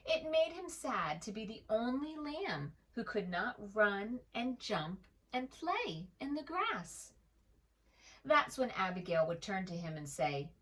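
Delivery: put-on gentle read-aloud voice for children; storybook narration. A narrator's reading. Narrator reading a picture book to young listeners, gentle.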